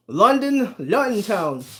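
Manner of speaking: put-on playful stab at a London accent; mock London accent. Greeting a chatter from England, mock London accent. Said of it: "I won't do that accent again".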